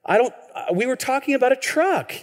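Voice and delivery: retold bafflement. Retold confused reply to his wife.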